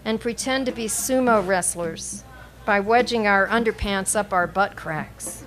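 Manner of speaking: measured poetry recital with pauses between phrases; deliberate, evenly phrased poem reading. Acted. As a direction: read it out as a poem, line by line. Reads own poem aloud.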